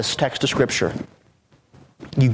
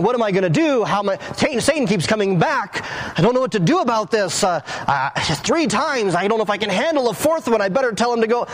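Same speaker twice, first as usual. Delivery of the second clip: higher-pitched pretend fretting, hesitant over what to do; mock struggling; 5 semitones higher than usual. Preacher mimicking a Jesus who can't cope, mock struggling. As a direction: act out someone at a loss. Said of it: "he wasn't struggling".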